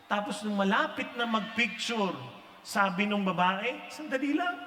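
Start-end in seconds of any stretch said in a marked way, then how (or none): 3.9-4.6 higher, slow, mock-tearful plea; a touch of hammed-up crying, high and slow; tearful wife. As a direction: choke up like a fan about to cry.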